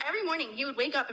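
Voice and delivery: British voice, slightly rushed; British accent. Retold or imitated. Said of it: "do that British voice".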